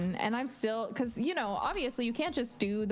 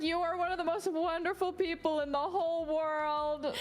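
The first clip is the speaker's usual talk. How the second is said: lightly gushing, raised-pitch compliment; gushing praise; 7 semitones higher than usual. Retold or imitated. Telling a supportive friend she is adored, mildly gushing. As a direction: lay on the adoration a little. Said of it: "She's a supportive queen".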